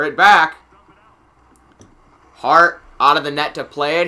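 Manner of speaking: steady live hockey commentary; play-by-play. Real, not acted. Announcer tracking the puck for viewers, play-by-play. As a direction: follow the puck as it moves.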